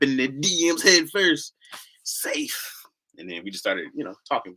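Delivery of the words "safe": whisper. Retold or imitated. Baseball safe call.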